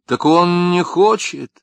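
high, slow embarrassed answer; blushing reply. A narrator's reading. Wife answers Lapshin, embarrassed and high. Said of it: "густо краснея ответила она".

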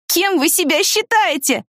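put-on high, slow, indignant teen demanding an answer; a hammed-up outraged girl's challenge. A narrator's reading. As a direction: call them to account, high and drawn out. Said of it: "призывала она нас к ответу".

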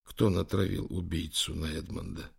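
soft, trembling whispered question. A narrator's reading. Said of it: "прошептал Лэнгдон дрожащим голосом".

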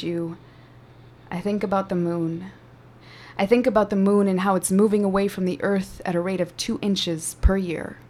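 measured, intimate poetry performance; spoken word poem. Acted.

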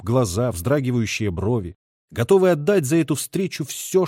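ordinary delivery

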